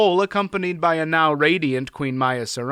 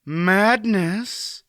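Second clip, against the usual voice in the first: sharp; 8 semitones higher, 3 dB louder than usual. A narrator's reading. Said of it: "repeated sharply".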